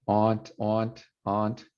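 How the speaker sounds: "aunt" said with a back "ah"; own aunt. Shown as a demonstration. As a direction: say "aunt" like "ont". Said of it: "I say aunt".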